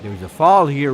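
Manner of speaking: ordinary talk, nothing marked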